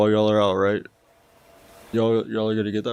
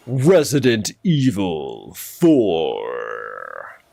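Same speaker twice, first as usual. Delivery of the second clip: deep announcer voice; 4 semitones lower, much slower than usual. Shown as a demonstration. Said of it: "just let me do my voices".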